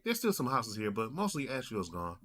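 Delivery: lightly voiced, high-pitched uncle; uncle's tone. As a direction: imitate your uncle casually reporting the damage. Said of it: "The tone I'm giving you".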